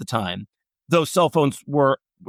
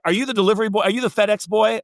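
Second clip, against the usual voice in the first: higher-pitched quizzing, lightly acted; retold questioning; 5 semitones higher, faster than usual. Older photographer quizzes a stranger at his door, mock questioning. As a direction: imitate a puzzled man questioning a caller.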